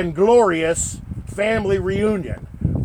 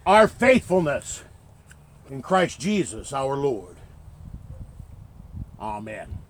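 blessing. Acted. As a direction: speak a gentle blessing over them. Pastor's blessing at graveside.

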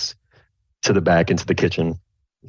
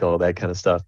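usual speaking voice

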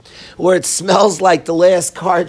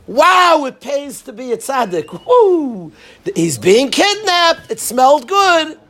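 mock excitement; 5 semitones higher than usual. Mock excitement over the reward.

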